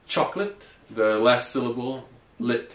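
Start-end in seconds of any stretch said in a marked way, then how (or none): 0.1-0.6 chocolate as two syllables choc-lit, ending on a rise; model word. Shown as a demonstration. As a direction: clear teacher model. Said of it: "Could you say that one more time".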